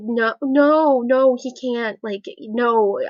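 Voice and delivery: emphatic mock-desperate objection; retold frantic refusal. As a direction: blurt out repeated refusals, re-enacting an argument. Acted refusal in retold argument.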